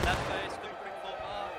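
shouted march order. Real, not acted. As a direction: call the march over gunfire. Officer calling march order.

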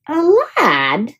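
a hint of a muttering dragon. A narrator's reading. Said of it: "muttered Dram".

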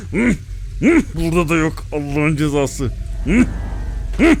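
high, laughing mimicry of grunts; laughing at the monster. Real, not acted. Gamer laughs while mocking the searching monster, high and giggly. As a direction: giggle through the search noises.

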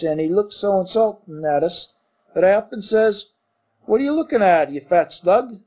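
lightly voiced Cockney servant; Cockney bellboy. Thomas the bellboy answering his master, light Cockney. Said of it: "Cockney dialect".

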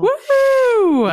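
high loud whoop; cheering. Real, not acted. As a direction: whoop it like a fan. Cheering the spark.

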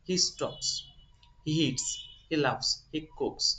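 "stops", "eats", "laughs", "cooks" each closed with a crisp s; s sound endings. Shown as a demonstration. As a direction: end every verb on a clean hissing s. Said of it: "স সাউন্ডের মতো হবে". (ক্রিয়ার শেষে পরিষ্কার স ধ্বনি)

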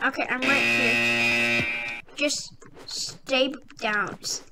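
slow, soft hiding voice; hushed. Real, not acted. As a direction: keep it low so nobody hears.

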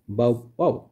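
lightly voiced bow-bow of a dog; imitated dog bark. Teacher showing children what a dog says, mild bark imitation. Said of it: "A dog says".

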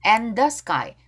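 "And" with a faint d; weakened D. Shown as a demonstration. Teacher showing a weak d in "And". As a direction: barely sound the d in "And". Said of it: "and 할 때 드 약하게".

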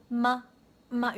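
MY shortened to a quick ma; reduced my. Shown as a demonstration. Teacher showing what is heard, my as ma. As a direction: drop the glide from MY. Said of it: "요렇게만 들리시죠".

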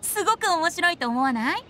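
amused laugh. Acted. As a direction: laugh it off playfully. Teasing about the strange poem.

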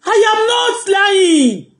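high, slow indignant shout; shouted denial. Acted. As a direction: yell it out, stretched and high.

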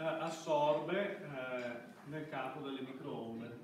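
usual speaking voice

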